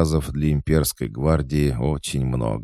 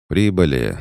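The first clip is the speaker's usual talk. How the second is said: announcing; 4 semitones higher, 7 dB louder than usual. A narrator's reading. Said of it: "объявил Митрич".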